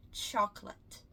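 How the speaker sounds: chocolate said as three syllables, cho-co-late, the late rhyming with English late; the mistaken chocolate, spelled out as cho-co-late; Portuguese-flavored chocolate with an extra middle o; wrong Brazilian version. Shown as a demonstration. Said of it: "Muitas pessoas falam chocolate".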